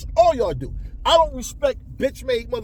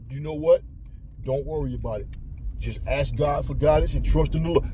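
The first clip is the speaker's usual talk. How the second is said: a hint of a lower, sanctimonious adviser telling you to trust the Lord; lightly voiced pious counsellor, lower and patronising; mock churchy advice; 7 semitones lower, 3 dB quieter than usual. Mocking advice from church folks.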